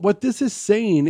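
ordinary talk

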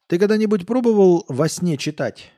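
a tipsy coder probing; drunk question. Acted. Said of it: "Он пьяно посмотрел".

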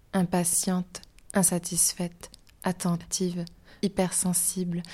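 intimate poem read, whispered at first; spoken-word poetry reading. Acted. Reads her poem aloud.

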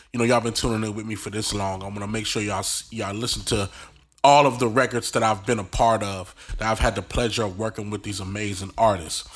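slightly nasal, fighting a cold; stuffy nose from a cold. Real, not acted. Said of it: "excuse me if I sound kinda nasally".

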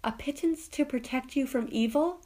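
a hint of a pleading street fortune-teller; gypsy fortune-teller. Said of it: "she says".

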